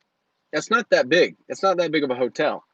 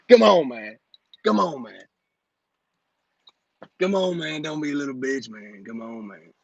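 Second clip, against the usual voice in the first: Grant impression. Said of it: "that was my Grant impression".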